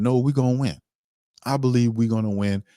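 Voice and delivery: decisive confident. Retold or imitated. The decisive answer the GM should give fans, firm. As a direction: declare the win with conviction. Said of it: "as opposed to saying".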